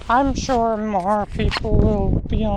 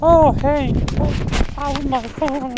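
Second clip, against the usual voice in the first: higher, lightly imitated phone owner; mock freak-out; 4 semitones higher than usual. Imagining people without their phones, mock freak-out. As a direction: pretend to be someone fussing over a phone. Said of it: "I can just imagine them freaking out".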